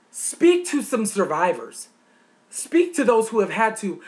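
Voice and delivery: indignant shouting at a politician; rising angry demands. Real, not acted.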